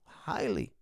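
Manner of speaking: whispered aside. Shown as a demonstration. Hushed echo to his stream viewers, whispered Highly. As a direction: whisper the word Highly under the breath. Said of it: "They're a highly".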